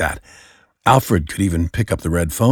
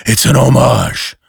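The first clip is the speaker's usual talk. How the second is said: gentle explanation; 5 semitones higher, 6 dB louder than usual. Acted. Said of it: "Batman gently explained".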